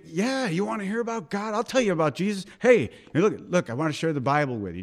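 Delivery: eager, acted-out enthusiasm; excited. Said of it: "Do you get excited about it?".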